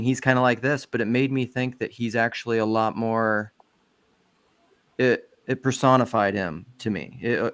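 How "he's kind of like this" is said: ordinary talk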